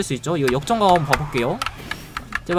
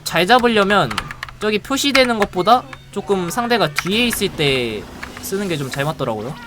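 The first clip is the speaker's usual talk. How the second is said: ordinary talk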